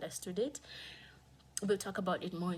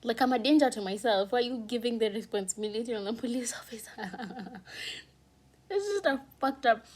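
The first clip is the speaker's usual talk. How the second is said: much louder, pitch up, incredulous; outraged; 4 semitones higher, 7 dB louder than usual. Real, not acted. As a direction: shout the absurdity. Outrage at police handling.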